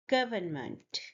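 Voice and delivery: GOV stressed in "government", then falling away; stress on first syllable. Shown as a demonstration. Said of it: "you stress the first syllable".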